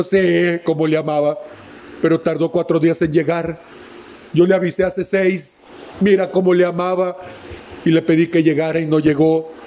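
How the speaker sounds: grieving sister mocking the crowd, low and bitter; bitter Mary. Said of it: "Seguramente María debe haber dicho".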